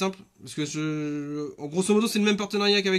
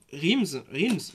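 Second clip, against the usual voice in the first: attempted English accent. Real, not acted. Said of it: "excusez-moi avec mon accent anglais".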